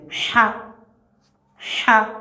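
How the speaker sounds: "Cha" said with a smooth, soft breathed h, no throat scrape; smooth soft letter sound. Shown as a demonstration. Teacher drilling students on the smooth soft "Cha". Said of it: "il y a le son qui vient".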